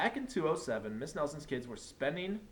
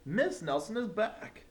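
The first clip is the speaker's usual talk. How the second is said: put-on excited kids; 9 semitones higher, 3 dB louder than usual. A narrator's reading. Kids announce teacher's return.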